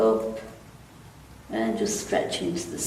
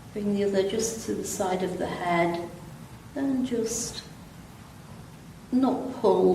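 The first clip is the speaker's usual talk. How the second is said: calm, unhurried stretch instructor; easy, even yoga-class delivery with long pauses; guided relaxation; 5 dB quieter than usual. Real, not acted. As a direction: guide them gently through it, pausing between phrases. Leads gentle seated stretches.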